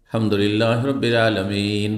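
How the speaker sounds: brisk but clear Quranic recitation; hadr recitation. Shown as a demonstration. Teacher demonstrating hadr recitation to listeners, brisk clear chant. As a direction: recite it quickly with every letter distinct. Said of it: "এটা হচ্ছে হাদর".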